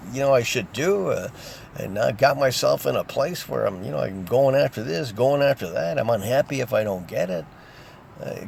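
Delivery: earnest sample plea to God; demonstrated prayer. Shown as a demonstration. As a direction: pray aloud, asking for help. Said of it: "pray, talk".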